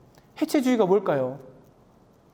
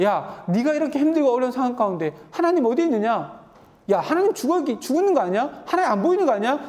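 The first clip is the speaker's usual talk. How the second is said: mocking wicked man. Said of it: "악인들이 내 삶을 바라보며".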